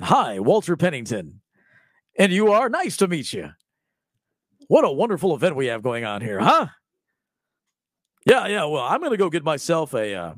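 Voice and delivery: chatty party-guest impression; imitating a smooth schmoozer. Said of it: "That's how he looks like he talked".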